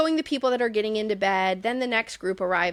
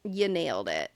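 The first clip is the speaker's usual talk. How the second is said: deadpan mock congratulation, low at the end; dry sarcasm; 3 semitones lower than usual. Real, not acted. Host mocking Kyle for figuring it out, dry sarcasm. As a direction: congratulate him drily. Mock praise after his quote.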